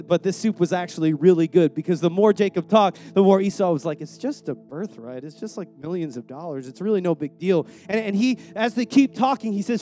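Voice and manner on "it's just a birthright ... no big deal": lower, softer shrug-it-off quote; mock dismissive. Esau downplaying his birthright for soup, mock dismissive. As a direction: act out talking yourself into it, low. Esau talking himself into trade.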